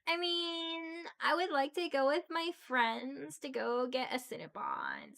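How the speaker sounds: put-on bubbly valley girl begging for tips; ditzy LA valley girl. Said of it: "I definitely can pull that shit when I want to".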